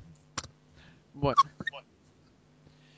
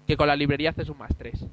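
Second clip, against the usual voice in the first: glitchy robotic voice; 2 semitones lower than usual. Real, not acted. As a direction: sounds like a robot on the line. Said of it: "Tienes voz de robot". (voz de robot)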